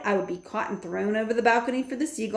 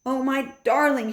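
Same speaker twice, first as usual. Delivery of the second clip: relieved; 6 semitones higher than usual. A narrator's reading. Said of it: "she cried".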